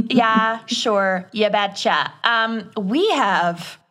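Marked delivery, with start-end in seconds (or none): 0.1-2.1 put-on Minnesotan accent. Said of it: "unleash their worst Minnesotan accents".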